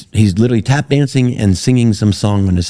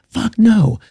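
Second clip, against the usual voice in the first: mock refusal. His retold refusal.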